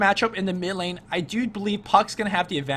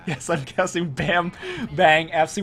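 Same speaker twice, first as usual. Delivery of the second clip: laughing. Real, not acted. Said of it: "I cannot say that name without laughing".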